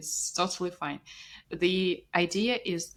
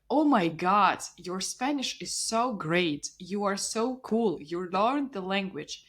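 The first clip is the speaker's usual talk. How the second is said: admiring praise. Acted. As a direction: gush like an impressed listener. Acted praise from Spanish speakers.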